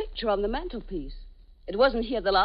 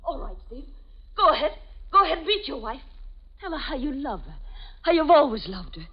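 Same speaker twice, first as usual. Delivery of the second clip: theatrical threat. Acted. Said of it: "not doing your nightclub act now".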